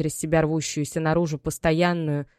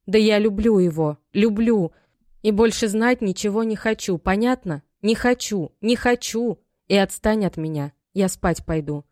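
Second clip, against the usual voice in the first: higher and louder, defiant outburst; heated daughter; 5 semitones higher, 4 dB louder than usual. Acted. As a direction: Maya flaring up at her mother about her love. Майя кричит о любви. (дочь вспылила, выше и громче)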